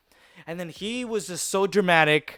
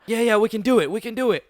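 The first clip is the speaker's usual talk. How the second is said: eager agreement; 5 semitones higher, 3 dB louder, faster than usual. Retold or imitated. Friends psyching each other up.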